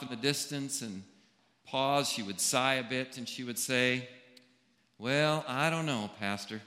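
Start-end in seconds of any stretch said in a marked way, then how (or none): 5.0-6.6 a light, unhurried Southern drawl imitating a friend; lightly voiced Southern lilt, not a full impression; easy Southern drawl. Pastor imitating a church member's gentle Southern drawl. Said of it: "in that easy Southern drawl".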